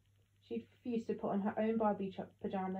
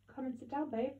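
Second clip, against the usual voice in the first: gently; 5 semitones higher than usual. A narrator's reading. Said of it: "he said gently".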